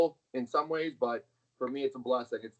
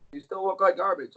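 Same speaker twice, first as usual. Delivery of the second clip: father's put-down; 6 semitones higher, 5 dB louder than usual. Retold or imitated. Father scolding a bragger.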